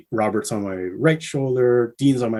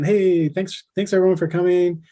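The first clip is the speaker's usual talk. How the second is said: imitating a cheerful rocker, pitched higher; lightly mock the band's friendly thanks to fans; higher, quicker mock welcome; friendly band greeting; 8 semitones higher than usual. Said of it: "They're, like, saying".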